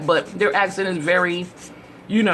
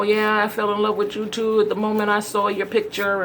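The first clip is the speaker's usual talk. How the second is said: higher-pitched, rote mock love declaration; feigned devotion; 6 semitones higher than usual. Woman feeding a suitor's lines back to him, feigned devotion. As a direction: play along with fake sweet talk, pitched up. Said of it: "I'm over here with the whole".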